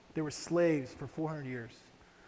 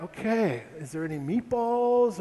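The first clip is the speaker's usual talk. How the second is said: hopeful plea; 4 semitones higher, 5 dB louder, slower than usual. Retold or imitated.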